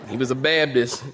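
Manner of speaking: Baptist as "Babdist", North Carolina style; North Carolina accent. Shown as a demonstration. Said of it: "if I'm getting it North Carolinian".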